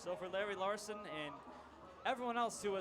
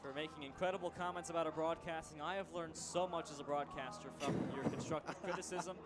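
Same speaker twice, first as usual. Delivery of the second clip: sarcastic. Acted. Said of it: "That's obviously sarcasm".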